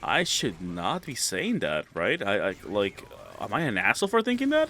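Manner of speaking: alarmed inner voice. Retold or imitated. Voicing viewer's alarmed inner thought.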